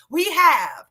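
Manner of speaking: slow, punchy kaboom calls; playful kaboom. Real, not acted. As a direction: bang out each kaboom for fun. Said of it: "I like saying kaboom".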